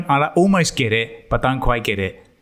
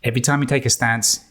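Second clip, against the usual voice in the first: lightly put-on Los Angeles rap accent; a rapper's accent. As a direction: rap the lines in a mild LA West Coast accent. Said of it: "I'm gonna say it in his accent"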